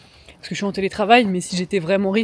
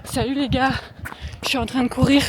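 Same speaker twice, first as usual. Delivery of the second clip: higher, upbeat hello to the viewers; vlogger intro voice; 5 semitones higher than usual. Shown as a demonstration. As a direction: greet the camera like a YouTuber. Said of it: "Je pourrais faire comme ça".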